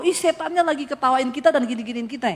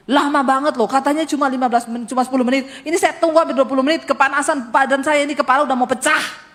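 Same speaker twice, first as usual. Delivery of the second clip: annoyed complaint; 3 semitones higher, 4 dB louder, faster than usual. Retold or imitated. Complaining angrily at husband in car.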